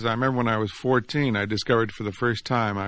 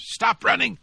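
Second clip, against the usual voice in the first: frightened plea; 12 semitones higher than usual. Acted. Boy panics at his heartbeat.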